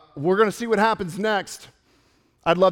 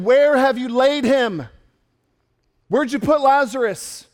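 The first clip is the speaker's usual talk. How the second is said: forceful demand with a touch of anger; righteous anger; 2 semitones higher, 5 dB louder than usual. Acted. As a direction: press the question, mildly angry. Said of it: "anger welled up inside of Jesus".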